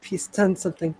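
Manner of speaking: mild anger rising in pitch; clenched-fist anger. Acted. Grandmother demanding Callahan pay, mildly angry. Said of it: "she clenches her fists".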